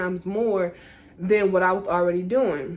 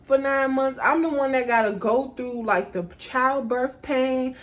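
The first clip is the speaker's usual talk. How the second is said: exasperated rant; 5 semitones higher than usual. Retold or imitated. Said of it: "I'm like".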